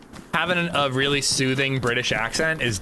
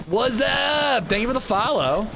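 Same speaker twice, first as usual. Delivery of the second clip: high put-on British accent; a chirpy British thank-you; 9 semitones higher than usual. Thanking a follower in a high British accent. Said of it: "best British accent I've ever done".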